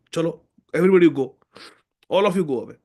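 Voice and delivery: firm dismissal. Retold or imitated. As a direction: send everyone away, fast. Guru dismissing the crowd.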